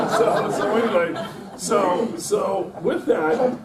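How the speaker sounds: words broken by laughter; laughing through it. Real, not acted. Speaker resuming the tale, still laughing. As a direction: keep laughing as you pick the story up.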